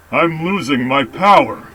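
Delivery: loud, desperate cry; panicked villain. Acted. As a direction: shout as your strength drains.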